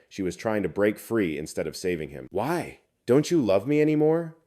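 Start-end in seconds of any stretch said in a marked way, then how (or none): 2.3-4.3 high, loud panicked plea; "Don't you love me anymore" cried out high and loud; desperate pleading. Acted. Bitten boyfriend begs, second take.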